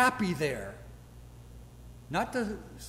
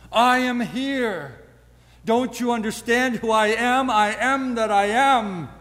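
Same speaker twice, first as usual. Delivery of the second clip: voicing Jesus; 5 dB louder than usual. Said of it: "And Jesus says".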